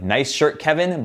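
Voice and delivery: drip mild sarcasm on the praise; sarcastic tone. Shown as a demonstration. Teasing his friend about a repeated shirt, mock sarcastic. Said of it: "my tone is sarcastic".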